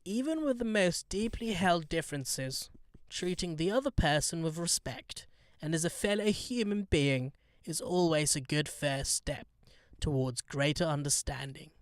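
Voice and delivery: a light go at the Queen's royal English; British royal accent, softly imitated; Queen impression. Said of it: "That was bad".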